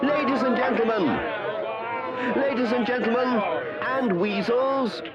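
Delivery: fast formal announcing; announcer voice. Acted. Badger addressing the audience, formal announcer. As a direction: announce it to the hall.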